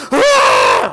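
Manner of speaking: loud mock battle roar; big hammed-up "Ah!"; charging crowd yell. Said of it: "running towards you going".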